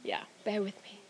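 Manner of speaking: slight lisp on the s sounds; talking round a new brace. Real, not acted. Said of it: "Excuse my lisp, I just had a brace fitted".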